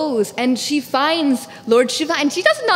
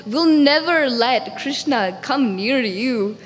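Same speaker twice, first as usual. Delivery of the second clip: anxious refusal; 2 semitones higher than usual. Acted. Anxious mother refusing a visitor covered in snakes, alarmed. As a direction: refuse in alarm, slowing on the final vow.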